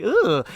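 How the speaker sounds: high, swooping mock "ooh"; imitated ooh. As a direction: squeal a brief, uneasy ooh. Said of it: "she's like".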